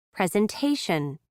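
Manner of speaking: "Presentation" with a puff of air on the stressed t; "Presentation" with an aspirated t. Shown as a demonstration. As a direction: release the t of "-ta-" in "Presentation" with extra breath. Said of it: "with an extra puff of air".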